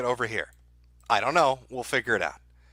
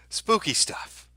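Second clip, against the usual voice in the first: high, far put-on spooky voice; ghost-story voice, drawn out on spooky; 8 semitones higher, much slower than usual. Streamer teasing chat about the map, high mock-spooky voice.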